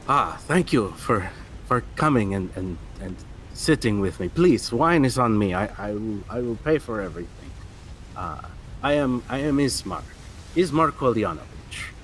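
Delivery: a lightly voiced gracious noble; Ismark, welcoming.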